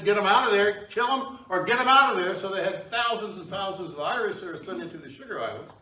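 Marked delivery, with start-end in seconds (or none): 0.0-2.3 loud retold royal command; a ruler ordering them gone, loud; king's order. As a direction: bark it out like a king. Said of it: "The king said".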